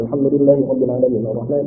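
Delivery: quick, low, softened Quran recitation; hadar recitation. Shown as a demonstration. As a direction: rattle through the verses under your voice. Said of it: "Kalau hadar itu cepat". (bacaan hadar yang cepat)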